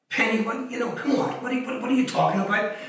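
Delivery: retelling his own baffled objection to the healer; incredulous protest. Retold or imitated. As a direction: brush off her warning as nonsense. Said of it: "And I'm like".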